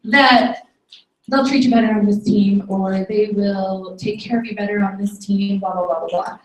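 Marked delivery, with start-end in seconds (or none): 1.3-6.4 low, droning mock pitch; lower, trailing off into blah-blah; dismissive mimicry. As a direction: recite a rival's spiel dismissively. Mocking a poacher's sales pitch.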